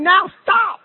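high, sudden shouted order; God commanding Cain to stop; sharp command. Acted. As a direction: stop him in his tracks. Preacher voicing God's command.

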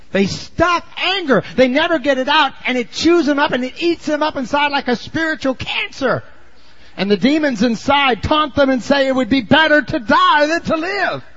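high, pressing pulpit voice that drives each line; fiery preaching. Acted. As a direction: preach it hard to the congregation. Preaching at full force.

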